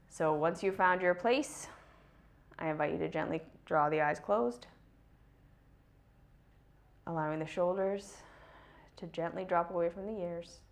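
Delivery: soft, unhurried meditation voice with long pauses; guided meditation. Real, not acted. Guide inviting listeners to draw the eyes closed, guided meditation. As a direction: gently guide them into relaxing.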